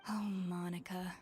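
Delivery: exasperated whisper before the outburst; whispered dismay. Acted. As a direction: breathe it out, barely voiced. Chef reacts to the note.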